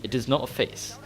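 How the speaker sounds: scolding mock-British; proper British accent. Gamer imitating his friend telling off a player, British accent. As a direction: issue a formal reprimand in a British accent. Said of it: "just proper English, British".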